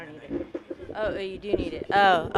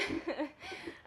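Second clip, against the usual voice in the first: emotional laugh; 6 semitones higher, 9 dB quieter than usual. Real, not acted. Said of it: "I'm getting a little emotional".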